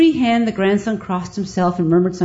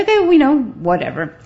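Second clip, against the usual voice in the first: higher flustered burst, then dropping; flustered okay; 5 semitones higher than usual. Retold or imitated. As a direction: blurt it, then shrug it off. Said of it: "But I say".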